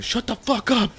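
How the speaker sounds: high, loud mock yell; imitated screaming. Brother turning on the guy egging him on, imitated yell. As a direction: yell it as the fed-up brother, half laughing. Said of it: "screaming the top of his lungs".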